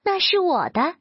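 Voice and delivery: high-pitched, mildly voiced squeal of protest; understated high shriek; squirrel's shriek. A narrator's reading. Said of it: "松鼠尖叫".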